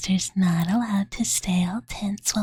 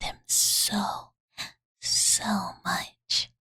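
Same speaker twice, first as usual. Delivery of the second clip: whispered bedtime story. Acted. Fuari reading a fairy tale to sleepy Master, whispered. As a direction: lull them to sleep with the tale.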